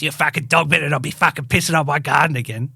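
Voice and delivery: quick, mildly aggressive mock voice; imitated aggressive neighbour. Neighbour complaining to a dog walker, imitated aggression. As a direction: rattle it off like a cranky local. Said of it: "he's being aggressive".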